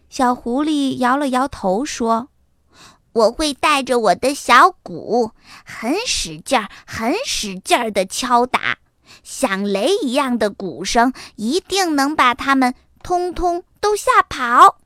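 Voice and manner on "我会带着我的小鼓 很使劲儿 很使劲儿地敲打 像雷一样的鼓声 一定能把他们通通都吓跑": lightly voiced eager child; bold little fox. Little fox planning to drum tigers away, boldly. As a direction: boast with vigour, building to the end.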